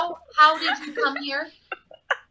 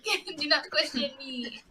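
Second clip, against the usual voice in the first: put-on French accent; 4 semitones higher, 3 dB quieter, slower than usual. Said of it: "Him with the French accent".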